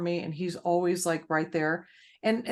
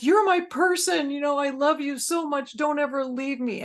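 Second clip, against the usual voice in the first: voicing the dog's love; 7 semitones higher than usual. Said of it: "imagining, like, God just".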